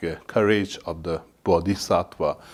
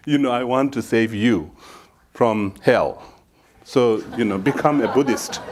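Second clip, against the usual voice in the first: laughing mock preach; 3 dB louder than usual. Mock missionary pitch, laughing through.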